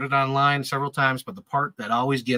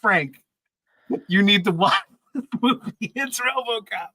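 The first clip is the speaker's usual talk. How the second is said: insistent mom; 7 semitones higher than usual. Retold or imitated. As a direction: lightly voice mom urging her kid awake to watch. Mom insisting he watch RoboCop.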